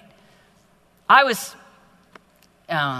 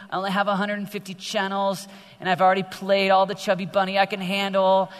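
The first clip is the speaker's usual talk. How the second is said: mock sulky teen; 2 semitones higher than usual. Preacher mocks a bored teen to youth, hammed-up whine. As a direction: ham up a bored teen sprawled on the couch. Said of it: "and you're a slug".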